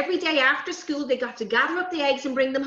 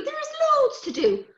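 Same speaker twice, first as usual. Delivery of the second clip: mammy's voice. Acted. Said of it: "says Mammy".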